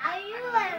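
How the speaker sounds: quiet threat. Pretend. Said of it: "நான் நடிப்பு அழுவேன்".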